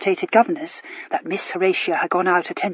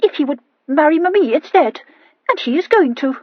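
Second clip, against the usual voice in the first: high, loud triumphant finish; girl triumphantly announcing her engagement; 7 semitones higher, 6 dB louder than usual. A narrator's reading. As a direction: crow the last word. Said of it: "concluded Horatia triumphantly".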